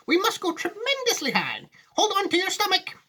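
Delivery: very high, excited command; Mister Wonka. Acted. Wonka warning passengers of the climb, high and excited. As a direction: whip them up with a high-pitched cry. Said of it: "said Mister Wonka".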